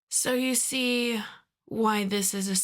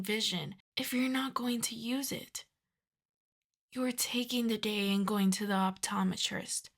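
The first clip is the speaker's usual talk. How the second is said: softer, restrained dressing-down; exasperated scolding; 6 dB quieter than usual. Acted. Boss scolding Giacomo for kidnapping the wrong person, quietly exasperated. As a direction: scold the henchman under your voice. Scolding henchman aside over mix-up.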